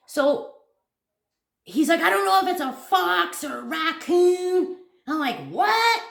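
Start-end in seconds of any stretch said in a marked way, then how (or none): 2.0-4.8 high, raised imitation of a friend; re-enacted excited alarm; alarmed report. Retells friend's shouted report. 5.5-6.0 high, loud acted "what"; pitched-up burst of disbelief; incredulous shock. Re-enacts incredulous reaction.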